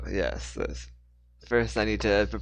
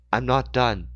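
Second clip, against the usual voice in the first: furious; 3 semitones higher, 5 dB louder than usual. Acted. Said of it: "She was furious".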